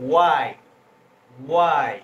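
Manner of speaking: teacher projecting ওয়াই forcefully; loud model. Shown as a demonstration. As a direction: belt out ওয়াই for the class to repeat. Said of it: "আমি যেভাবে বলতেছি ঠিক তোমরা".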